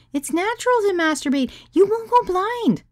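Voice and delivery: very high, coaxing reassurance; soothing. Acted. Katie calming a worried guest, high-pitched soothing. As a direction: reassure in a high, sing-song voice. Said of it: "Katie said soothingly".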